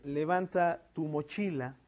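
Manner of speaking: slow example phrase, tu left unstressed before mochila; measured delivery with no emphasis on tu; unaccented tu. Shown as a demonstration. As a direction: let tu lean lightly into mochila. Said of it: "pues ahí va sin acento".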